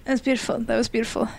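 soft golf-crowd murmur; mock reverent, softly spoken; hushed praise. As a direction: praise it quietly, as at a golf match.

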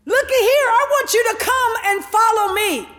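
high, emphatic summons; Jesus. Acted. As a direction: call them to follow with a preacher's force. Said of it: "He comes and he says".

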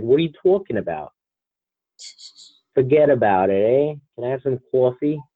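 hammed-up New Jersey accent. Mocking what people think they sound like, Jersey accent. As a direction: put on a mock Jersey accent. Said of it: "what they want me to sound like".

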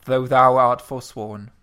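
slow careful retry. Shown as a demonstration. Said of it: "second try of line".

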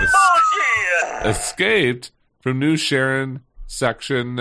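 high, slow stretched shout; drawn-out shout. Real, not acted. Loud stretched mid-read.

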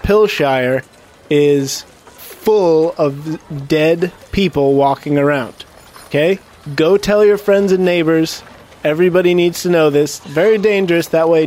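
public announcement. Acted. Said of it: "I'm like".

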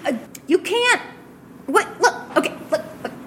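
high squeaky little creature, protesting fast; small creature voice. Acted. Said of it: "a much smaller voice".

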